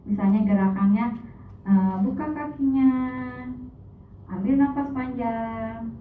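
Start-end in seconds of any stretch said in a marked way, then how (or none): 2.1-5.9 firm yoga instructor. Shown as a demonstration. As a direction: call out yoga moves clearly. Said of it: "harus tegas, tegas gitu".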